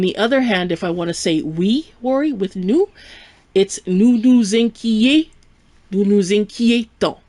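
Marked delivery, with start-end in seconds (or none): 3.9-7.2 "inquiétons" with closed "ay" in "quié"; closed é sound. Shown as a demonstration. Teacher showing the difference, "inquiétons" with closed é. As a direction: break off on "inquié-", then give the whole "inquiétons". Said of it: "there is a pronunciation difference".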